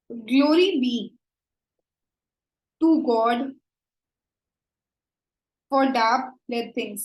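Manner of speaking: slow recital with long pauses; measured poetry reading; poem recital. Shown as a demonstration. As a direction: read the line out for its rhythm. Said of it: "so the stressed syllable again".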